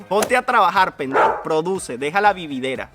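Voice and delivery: loud, scornful hater voice; mock hater shout. Vlogger reading a hater's comment aloud, loud and scornful. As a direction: bark it out like an angry troll. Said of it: "este es otro que sufre".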